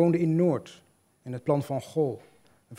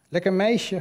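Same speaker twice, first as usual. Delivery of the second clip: mock catcall; 6 semitones higher, 6 dB louder, slower than usual. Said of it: "had hij geroepen".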